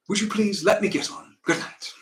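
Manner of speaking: brisk, courteous send-off; somewhat polite dismissal. Acted. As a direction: stay polite without engaging. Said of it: "I would be polite, somewhat polite".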